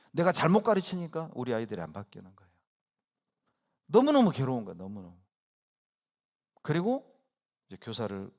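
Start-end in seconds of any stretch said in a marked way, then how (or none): 3.9-4.8 louder, pressing on 너무너무; anguished emphasis. Real, not acted. Emphatic repeat. 4.8-5.2 너무너무 dropped to a murmur; 너무너무 softly repeated, much quieter; soft echo. Real, not acted.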